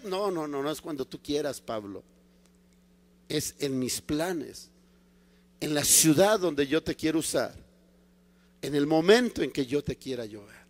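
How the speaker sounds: low, soft, patient refusal; quiet him down with measured authority; God's calm correction. Acted. The Lord corrects impatient Paul, calm and firm.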